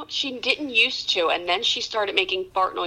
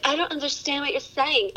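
robot voice; 6 semitones higher than usual. Retold or imitated. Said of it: "that thing is always like".

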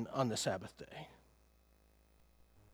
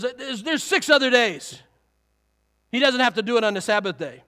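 indignant ruler; 3 semitones higher, 5 dB louder than usual. Retold or imitated. Preacher voicing the ruler protesting the healing, indignant. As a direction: insist like a rule-bound official. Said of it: "in indignation, he goes".

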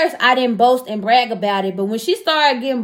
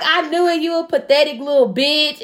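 quoting her through laughter; mock insult while laughing; giggling through the retold insult; laughing quote; 3 semitones higher than usual. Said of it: "She was like".

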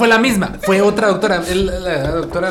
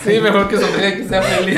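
repeating the line through laughter; laughing; 4 semitones higher, 5 dB louder than usual. Real, not acted. Echoing the doctor joke to friends, laughing. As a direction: chuckle the words out.

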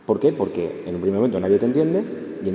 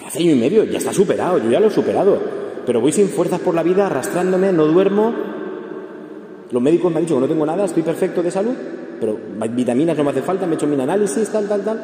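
higher and louder, insistent retelling of the mourner; grieving person's complaint; 7 semitones higher, 4 dB louder than usual. Retold or imitated. A grieving person tells the counsellor they're drained, higher and louder. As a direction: pour out the worn-out sufferer's list, pitched up. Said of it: "¿Se te ha muerto alguien hace poco?".

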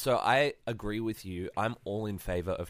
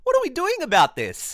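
mock outrage; 9 dB louder than usual.

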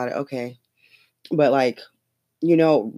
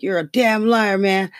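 angry retort; 6 semitones higher, slower than usual. Retold or imitated. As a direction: imitate Biden losing his temper. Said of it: "he got pissed".

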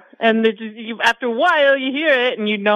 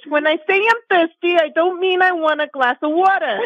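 higher-pitched Rosie Perez line; a light higher take on a Brooklyn girlfriend; Rosie Perez impression; 5 semitones higher than usual. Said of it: "I gotta get the higher pitch".

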